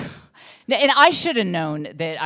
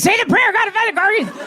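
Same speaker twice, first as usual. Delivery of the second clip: much higher, louder mocking squeal; mock neighbor; 4 dB louder, faster than usual. Imitating a neighbor begging for the car keys, high and mocking. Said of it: "she'd be like".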